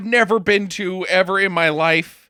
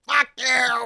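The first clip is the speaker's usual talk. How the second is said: higher, playful jab; mock defiance; 7 semitones higher than usual. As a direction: toss it off lightly, teasing. Echoing the defiant line.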